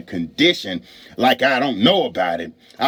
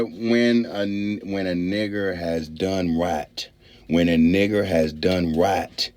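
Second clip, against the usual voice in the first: Mark Twain; 8 semitones lower, slower than usual. Acted. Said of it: "Mark Twain said".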